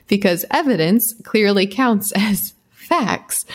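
slow, mocking sarcasm about facts; sarcastic. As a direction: drag it out with dry scorn. Mocking the documentary's "facts" label.

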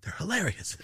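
taunting. Pretend. Taunting the Nazi in role.

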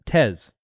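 "Tez" ending on a buzzing Z; Z pronunciation. Shown as a demonstration. Cohost confirming the first syllable, "Tez" with a Z sound. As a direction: say "Tez" to rhyme with fez. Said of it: "As though it's a Z".

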